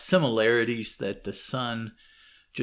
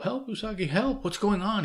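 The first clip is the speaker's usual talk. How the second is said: higher, urgent call for help; yelling for help; 10 semitones higher than usual. Retold or imitated. Servant running in calling Usagi for help, alarmed. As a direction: cry out for rescue. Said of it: "yelling for his help".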